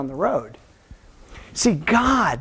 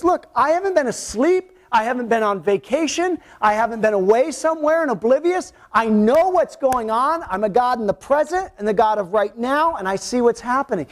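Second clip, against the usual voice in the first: God speaking; 4 semitones higher than usual. Acted. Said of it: "what he was saying to Moses is".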